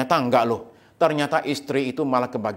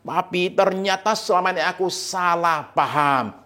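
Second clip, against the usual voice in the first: lightly voiced wife, higher, drawn-out apology; apologetic wife; 5 semitones higher than usual. Wife admitting to her husband she misunderstood, apologetic. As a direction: plead a little, pitched up, as a wife. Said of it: "istrinya lari ke suaminya dan bilang gini".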